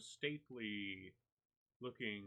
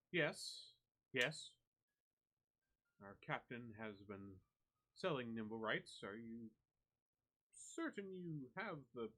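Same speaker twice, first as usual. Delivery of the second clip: higher, snooty dockworker sizing up a poor customer; condescending drow; 4 semitones higher than usual. Acted. GM's drow worker doubting the party's funds, raised snooty voice. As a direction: look down your nose politely, voice raised.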